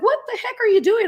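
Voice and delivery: high, loud exasperated disbelief; retold indignation. Recounting her reaction to the planchette, retold indignation. Retold scolding of spirit board.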